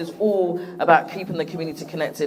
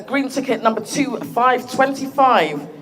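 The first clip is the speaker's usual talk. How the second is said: number caller; slower than usual. Real, not acted. Calling raffle number.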